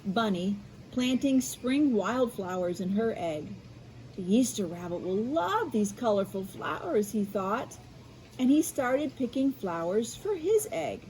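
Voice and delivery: bright storybook narration; reading to children. A narrator's reading. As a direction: read it like bedtime for kids. Reads picture book aloud.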